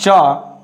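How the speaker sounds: CHA as the sound that starts chair. Shown as a demonstration. Teacher isolates the sound for students, CHA with CH. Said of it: "So here is pronunciation".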